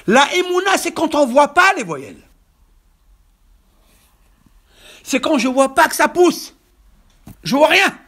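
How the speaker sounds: loud, high-pitched preacher's proclamation; prédication exaltée. Real, not acted. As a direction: proclaim each word forcefully to the congregation. Preaches at full force. (prêche à pleine voix, exalté)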